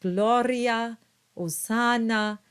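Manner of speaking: gloria, hosanna with pure open vowels; sing-song Latin diction demo; careful Latin vowels. Shown as a demonstration. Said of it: "So we have words here like".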